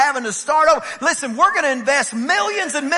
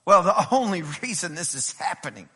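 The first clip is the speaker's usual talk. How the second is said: scoffing, low mock explanation; 5 semitones lower than usual. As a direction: say it like a dismissive skeptic. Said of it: "I can't even say that with a straight face".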